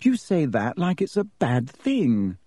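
slightly hurt. Acted. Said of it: "in a slightly hurt voice".

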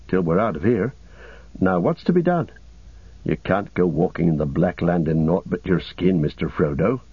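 understated character voice, pitched a little down; lightly voiced Sam. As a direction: lightly play a plain-spoken hobbit.

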